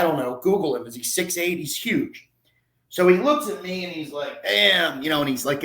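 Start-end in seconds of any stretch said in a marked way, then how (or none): 4.4-5.0 imitated Southern drawl, higher and louder; put-on Southern astonishment; Southern accent. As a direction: exclaim it like an impressed Southerner. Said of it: "in his Southern accent".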